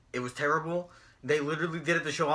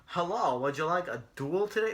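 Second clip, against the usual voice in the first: badly faked UK accent, a little softer; attempted UK accent; 5 dB quieter than usual. Mocking how the wrestler Jack Gallagher talks, attempted UK accent. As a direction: try a half-hearted British accent. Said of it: "he talks like a fucking U K prick".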